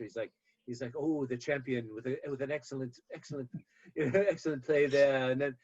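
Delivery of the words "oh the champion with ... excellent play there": golf announcer voice. Retold or imitated. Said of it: "he sounds like a golf announcer".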